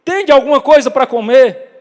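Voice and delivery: loud, high call from the shore; shouted call. Retold or imitated. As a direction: call out across the water to them. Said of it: "O grito volta".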